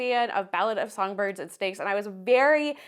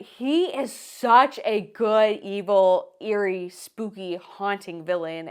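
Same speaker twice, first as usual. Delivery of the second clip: slow, lightly eerie delivery on each word; spooky villain voice; 3 semitones lower, 4 dB louder, slower than usual. Acted. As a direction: savour the creepy words a little.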